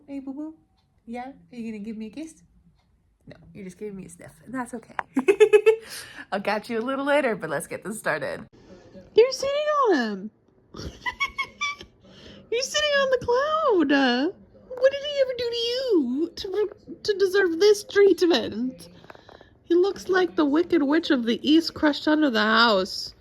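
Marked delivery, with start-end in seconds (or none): 0.1-4.9 soft cooing pet voice. Real, not acted. Cooing at the dog. 9.1-23.1 much higher, louder, laughing tease; high teasing voice. Real, not acted.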